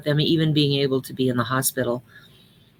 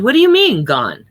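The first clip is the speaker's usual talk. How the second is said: shocked; 6 semitones higher, 7 dB louder than usual. A narrator's reading. Nurse shocked by death.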